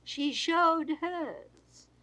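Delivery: plain reading voice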